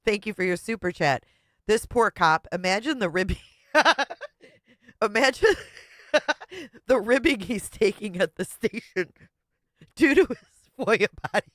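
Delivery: giggling through the read; words breaking into laughter; reading while laughing. Real, not acted. Streamer reading a viewer's message, cracking up. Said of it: "Critter Watcher says".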